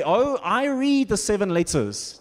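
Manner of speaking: slow, self-important mock critic; sarcastic armchair critic. Preacher imitates an armchair critic reading the letters, sarcastic. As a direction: play a know-it-all, tongue in cheek. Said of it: "I'm being sarcastic".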